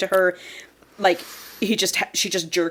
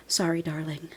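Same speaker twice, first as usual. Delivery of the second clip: retold whisper; 2 semitones lower, 9 dB quieter than usual. Telling how he dismisses each girl, softly imitated whisper. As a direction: drop it soft, as if into an ear. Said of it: "whispers in their ear".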